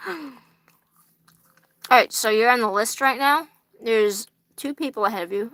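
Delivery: talking through a mouthful of fries; mouth full. Real, not acted. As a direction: speak around a bite of food. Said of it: "Soggy french fries in my mouth".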